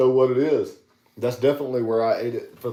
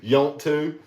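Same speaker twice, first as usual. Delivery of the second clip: Southern drawl; 4 semitones higher than usual. Retold or imitated. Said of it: "like the old school".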